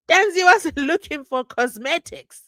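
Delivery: high, loud protest broken by laughter; amused disbelief. Real, not acted. Host objects to the interpreter's mistake, laughing in disbelief.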